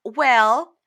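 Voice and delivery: loud, slow, high imitated put-down; mock disdain. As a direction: draw each phrase out with exaggerated distaste. Retelling her disdainful verdict on ring.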